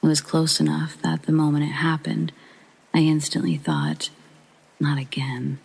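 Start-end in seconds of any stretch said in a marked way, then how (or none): 4.8-5.6 resigned acceptance. Retold or imitated. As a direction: let it drop, already accepting it. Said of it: "in a kind of acceptance way".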